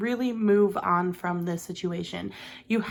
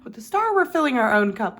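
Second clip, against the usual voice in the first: Star jumps way up, then louder; high retake; 6 dB louder than usual. Real, not acted. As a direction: restart higher and stronger. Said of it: "Actually, you know what? I probably shouldn't show that one".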